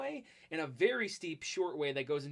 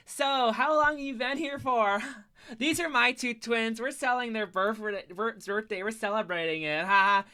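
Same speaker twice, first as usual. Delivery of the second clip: drunk mom impression; 4 semitones higher, 6 dB louder than usual. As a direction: ham up a tipsy mom chatting up the driver.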